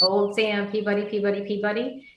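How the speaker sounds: put-on "Old Sam Peabody, Peabody, Peabody" in an even, repeating birdsong rhythm; birdsong mnemonic. Shown as a demonstration. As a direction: recite "Old Sam Peabody, Peabody, Peabody" like a sparrow's song. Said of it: "Again, that's".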